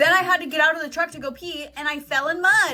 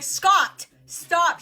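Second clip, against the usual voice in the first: loud, higher mock scolding; 5 semitones higher, 6 dB louder than usual. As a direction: imitate a wife telling off her husband. Mom scolding dad, retold.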